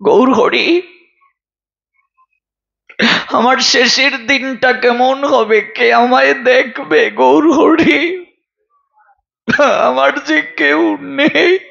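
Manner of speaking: mildly acted weeping of a poor maidservant; tearful pleading. Lonely maidservant pleads with Gourhari over her last days, tearful. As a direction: plead as if close to tears, lightly acted. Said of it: "দুঃখী কেঁদে কেঁদে বলছে".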